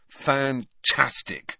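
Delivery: slow, sour sarcasm; bitter. Acted. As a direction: drag it out, fed up. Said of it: "said Harry bitterly".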